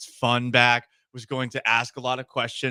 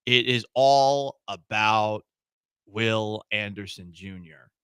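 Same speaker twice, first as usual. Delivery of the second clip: slow, serious, lower voice; 6 semitones lower than usual. Real, not acted. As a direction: drop into a serious tone. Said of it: "get serious for a moment here".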